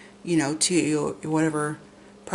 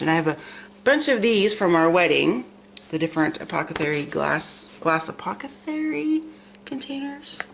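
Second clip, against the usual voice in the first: numb-mouthed, slurred speech; tongue forward voice. Real, not acted. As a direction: talk around a numb tongue. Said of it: "It's hard for me to talk sometimes, you guys, 'cause left half of my face, including my mouth, and my tongue is numb".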